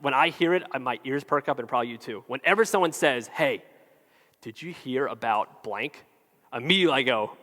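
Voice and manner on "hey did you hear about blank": low, soft, slow gossip lure; acted hushed teaser; confiding gossip. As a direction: drop the voice and draw out the juicy question. Someone offering juicy gossip.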